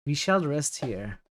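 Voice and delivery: French accent on "We shall rest here", slow and even; demoing a standard French accent for chat. Shown as a demonstration.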